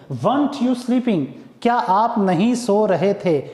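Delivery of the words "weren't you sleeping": slow dictation. Shown as a demonstration. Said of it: "contraction form लिखेंगे".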